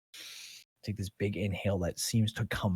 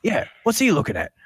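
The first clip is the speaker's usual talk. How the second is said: much higher and louder goofy gelding voice; dopey horse; 12 semitones higher, 9 dB louder, faster than usual. Acted. Gelding backing up the mare against the druid, high goofy voice. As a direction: chime in like a dim sidekick horse. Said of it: "just goes".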